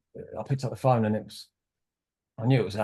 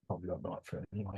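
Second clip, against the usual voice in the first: breathy inner voice; 4 semitones lower, 15 dB quieter, faster than usual. Retold or imitated. Inner thought voiced aloud.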